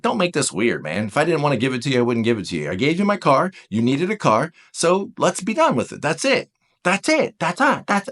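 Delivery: lightly put-on New York accent. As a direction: voice a no-nonsense type with a touch of New York. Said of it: "always talk in New York accent".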